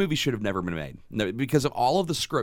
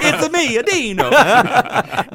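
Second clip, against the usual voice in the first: much higher and louder, cracking up; laughing; 11 semitones higher, 10 dB louder, much slower than usual. Retold or imitated. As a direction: try a fake Italian accent but crack up laughing. Mocking Italian producer, laughing.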